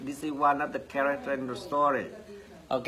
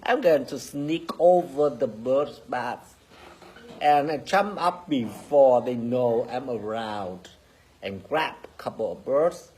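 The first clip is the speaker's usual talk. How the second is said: sneaky hungry cat; 3 dB louder than usual. Acted. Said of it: "Sweetie said to himself".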